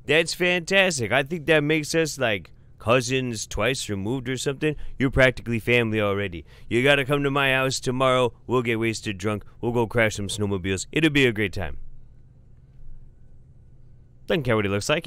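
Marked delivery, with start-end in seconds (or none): 0.1-11.8 put-on high, hearty welcome in a Fargo accent. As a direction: exclaim like a delighted Fargo-accented uncle. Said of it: "Manitoba-ish sounding Fargo accent".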